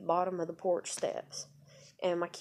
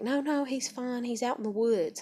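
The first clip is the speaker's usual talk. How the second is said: lightly voiced mother, pitched up; quick to brush off concern, higher voice; retold reassurance; 5 semitones higher, 3 dB louder than usual. His mama on the phone covering for him, reassuring.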